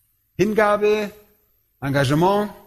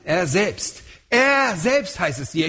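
„Er“ betont vorangestellt; „Er selbst“ mit Nachdruck auf „Er“; stress on ER; slower than usual. Shown as a demonstration. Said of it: "wird dort emphatisch, also zur Betonung". („Er“ hervorheben, emphatisch)

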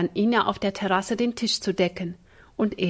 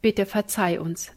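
contrite. Acted. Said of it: "sagten die Kinder betroffen".

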